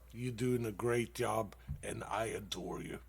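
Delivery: normal talking voice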